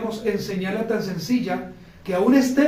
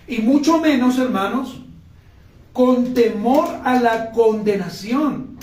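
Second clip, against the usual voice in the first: rising preacher's call; 4 semitones higher, 5 dB louder than usual. Acted. Preaching climax.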